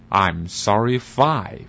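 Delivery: very slow, deliberate broken English; earnest and clueless; halting Chinglish. Acted. Clueless learner slowly answering confused foreigner.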